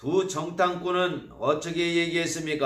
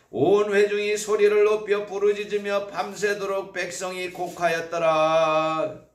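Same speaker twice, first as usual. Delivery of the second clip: read aloud together; 4 semitones higher, 4 dB louder than usual. Shown as a demonstration. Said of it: "같이 읽어볼까요".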